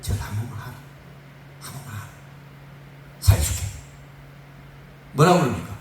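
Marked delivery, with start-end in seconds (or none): 0.0-3.6 soft, low royal plea; hushed coaxing. Acted. King offering to spare the three friends, hushed coaxing. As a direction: coax them under your breath.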